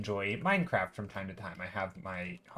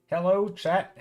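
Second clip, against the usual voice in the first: bright greeting; 7 semitones higher, 4 dB louder, slower than usual. Real, not acted. Streamer greets chat.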